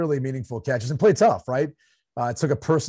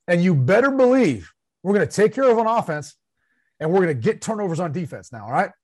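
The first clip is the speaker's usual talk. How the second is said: mock tough coach; 3 semitones higher than usual. Mocking a coach stating the obvious to the press, hammed-up bark. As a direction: punch out the obvious plans like a hard-nosed coach. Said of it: "state the obvious".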